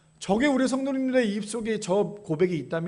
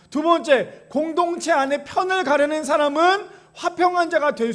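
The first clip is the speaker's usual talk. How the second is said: raised, emphatic sermon delivery; impassioned preaching; 5 semitones higher, 6 dB louder than usual. Real, not acted. Preacher blessing and exhorting congregation, raised and forceful. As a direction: proclaim it to the whole congregation.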